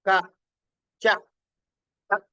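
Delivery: crisp isolated "క", "చ", "క"; articulation demo. Shown as a demonstration. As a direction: tap each "క" and "చ" cleanly with the tongue. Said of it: "క అనగా నాలిక చూడండి". (నాలిక తగిలేలా "క, చ, క")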